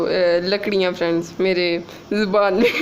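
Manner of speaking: amused real laugh; laughing at herself. Real, not acted. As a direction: laugh off the funny word. Laughs at own word for cinnamon.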